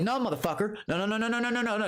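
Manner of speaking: rapid high string of no no no; mock-firm refusal, high and insistent; emphatic no. Emphatic refusal retold to Bert.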